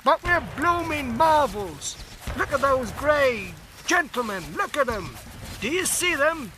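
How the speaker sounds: high, rising amazed trench talk; cockney soldier agog; excited soldier. Acted. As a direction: point and marvel at the slaughter. Soldier marvels at falling enemy.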